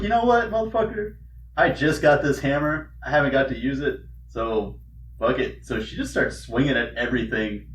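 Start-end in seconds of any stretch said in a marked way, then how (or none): 0.0-5.7 mock defiant outburst. Heroine defies demon, retold.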